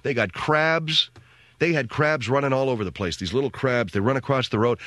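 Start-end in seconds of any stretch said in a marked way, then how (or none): 0.0-1.1 put-on Mexican accent. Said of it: "the guy says to me".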